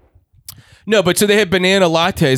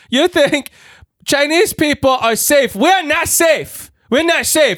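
much higher, drawn-out mock Chinese accent; terrible Chinese accent; 12 semitones higher, slower than usual. Woman warning a cafe customer, high put-on Chinese accent. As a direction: do a bad Chinese accent, pitched high and insistent. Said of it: "I'm doing a terrible Chinese".

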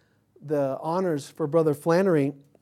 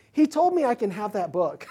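laughing excuse; 5 semitones higher than usual. Retold or imitated. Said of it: "I'd be like".

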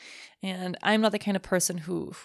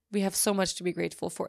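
fast; faster than usual. Real, not acted.

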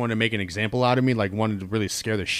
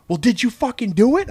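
sharp higher demanding aunt; angry; 10 semitones higher, 5 dB louder than usual. Retold or imitated.

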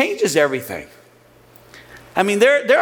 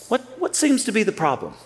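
softened question; 4 semitones higher, 3 dB quieter than usual. Shown as a demonstration. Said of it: "The tone changes everything".

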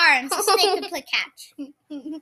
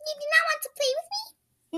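snake voice; 10 semitones higher, 7 dB quieter, faster than usual. Acted. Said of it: "I have a good Snake impression".

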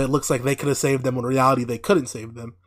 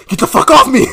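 high, loud retold outburst; hammed-up angry yell; mock angry snap; 10 semitones higher, 11 dB louder than usual. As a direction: laughingly act out someone snapping. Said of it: "he snaps and says".

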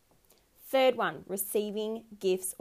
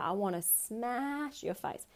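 slow, softer menacing line; mock rage; 2 semitones higher, 4 dB quieter than usual. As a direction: let the fake fury simmer slowly. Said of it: "Bit aggressive".

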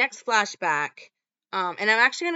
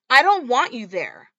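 retold shout; 4 semitones higher, 8 dB louder than usual. Daughter yells at mother.

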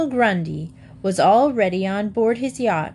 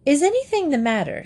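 alarmed question; 7 semitones higher, faster than usual. A narrator's reading. Mrs Brown alarmed at Admiral.

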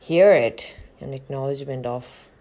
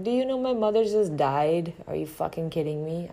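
incredulous outburst; 3 semitones higher, 4 dB louder than usual. Retold or imitated. Inner outburst about mother's death.

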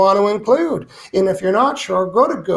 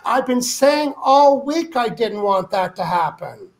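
much higher, louder, crying shout of frustration; exasperated outcry; 8 semitones higher, 3 dB louder than usual. Retold or imitated. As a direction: wail that it happened anyway. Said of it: "you point at it and say".

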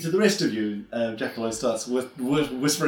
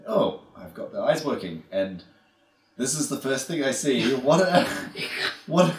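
sneering gloating dark voice. Acted. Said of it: "You hear the Lich's voice".

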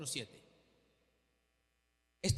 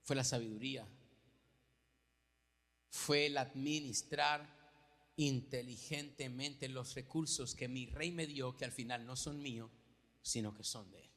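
hushed heartfelt witness; quiet sincere testimony; 8 semitones lower, 6 dB quieter than usual. Real, not acted. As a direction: bring it down to a confession. Preacher drops to intimate testimony.

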